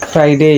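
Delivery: ফ্রাইডে with the R clearly said; sounded R. Shown as a demonstration. Teacher showing R before a vowel, sounded R. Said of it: "আর এর উচ্চারণটি আছে".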